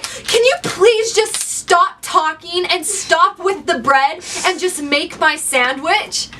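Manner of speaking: rude demand. Retold or imitated. Impatient customer snapping at the sandwich maker, slow and drawn-out. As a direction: stretch every word out like a pushy customer who's had enough.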